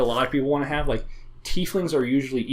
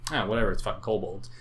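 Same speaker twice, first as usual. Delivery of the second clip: dismissive; 3 semitones lower, faster than usual. Acted. Acted shrug at routine monsters.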